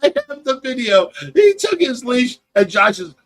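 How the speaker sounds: ordinary talk, nothing marked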